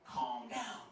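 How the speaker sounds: soft whispered hey, calm down; wife hushing him to calm him down, whispered; hushed calming whisper. Retold or imitated. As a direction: whisper to soothe a scared husband. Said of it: "she tried to calm me down".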